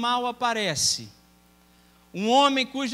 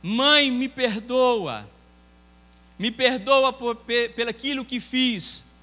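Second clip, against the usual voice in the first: pleading; slower than usual. Acted. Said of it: "já começa a suplicar por socorro".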